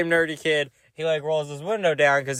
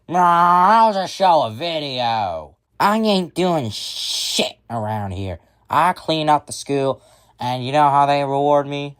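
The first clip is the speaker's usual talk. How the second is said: put-on drunk girlfriend; 3 semitones higher than usual. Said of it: "she drinks like a fucking monster".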